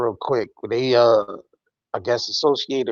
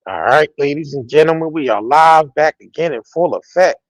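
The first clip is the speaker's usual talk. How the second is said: loud hype host welcome; loud fast street hustling; 3 semitones higher, 6 dB louder than usual. Real, not acted. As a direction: pump up the crowd like a street hustler. Host hyping the live show opening.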